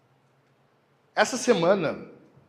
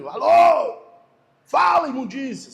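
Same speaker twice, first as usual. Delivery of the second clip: sudden very high, very loud yell down the phone; retold yell; 10 semitones higher, 10 dB louder, slower than usual. Pastor reenacting yelling at a telemarketer, very loud high yell. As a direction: bark it at the caller like you've snapped. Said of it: "Daí eu dou uns gritos".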